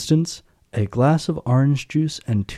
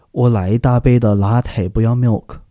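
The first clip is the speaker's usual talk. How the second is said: lightly voiced café customer, a bit louder; Starbucks customer ordering; 5 dB louder than usual. Imitating customers ordering at a Starbucks in China, light customer impression. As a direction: order it like a Starbucks regular mixing Chinese and English. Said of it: "ordering in exactly this way".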